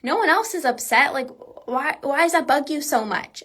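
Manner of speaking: mildly fed-up, nagging tone; exasperated partner. Retold or imitated. Partner objecting to all the crying, imitated exasperation. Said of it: "maybe your partner's like".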